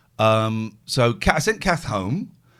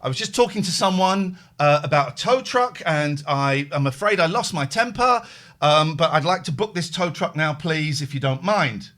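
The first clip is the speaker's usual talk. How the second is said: forced politeness. Retold or imitated. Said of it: "and I'm raging, but I'm".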